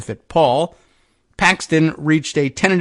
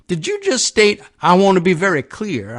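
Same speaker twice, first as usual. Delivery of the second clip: higher-pitched mock Texan lawmaker; put-on Texan accent; 4 semitones higher than usual. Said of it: "I don't know how Texan their accents".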